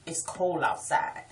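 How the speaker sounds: "cold" as COLE; local pronunciation. Shown as a demonstration. Local showing the spelled-out way, "cold" as cole. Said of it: "C O L E".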